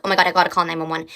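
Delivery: fast, rushed panic; retold panic. Followed driver deciding to call for help, fast retold panic. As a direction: rattle it off in a frightened rush. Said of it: "I go into full panic mode".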